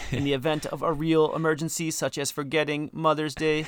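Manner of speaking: robot voice for an emergency alert. Pretend. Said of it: "that scary robotic voice you hear on an emergency alert test".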